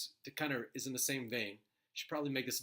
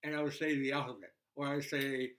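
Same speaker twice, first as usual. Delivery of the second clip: talking around a pen in mouth; pen in teeth. Shown as a demonstration. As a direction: speak with a pencil between teeth. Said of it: "a pen or pencil in my mouth like this".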